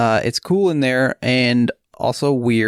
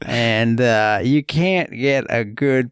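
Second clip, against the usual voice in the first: put-on old prospector. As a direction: ramble like a lonely gold panner. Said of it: "guy, prospector".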